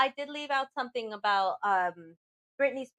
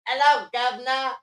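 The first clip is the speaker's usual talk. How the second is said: louder hello; catchphrase said louder on request; catchphrase on demand; 2 semitones higher, 7 dB louder than usual. Acted. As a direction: belt the catchphrase out. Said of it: "we didn't hear Dick say".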